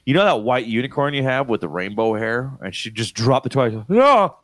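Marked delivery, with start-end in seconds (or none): 3.7-4.4 high, loud mock wail of no; hammed-up little-girl horror; imitated horrified child. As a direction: escalate into a drawn-out shriek. Child drops toy, acted horror.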